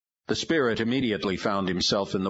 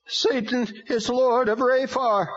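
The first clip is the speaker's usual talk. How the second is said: high, very slow demon voice; arguing demon; 5 dB louder than usual. A narrator's reading. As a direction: insist like a demon. Demon answers.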